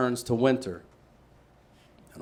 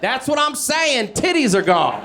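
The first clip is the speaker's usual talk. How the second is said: high, insistent repeat; exasperated insist; 12 semitones higher, 5 dB louder than usual. Retold or imitated. Messenger repeating the bad news, exasperated. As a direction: drive the point home. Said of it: "reply in bit".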